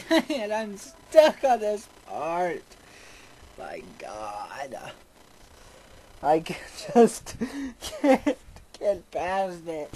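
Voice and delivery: high, loud, drawn-out frustrated whine; exasperated. Real, not acted. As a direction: stretch the words out in exasperation. Stuck on part of game.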